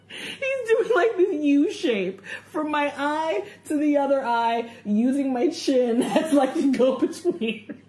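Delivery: giggling through the story; laughing while talking. Real, not acted.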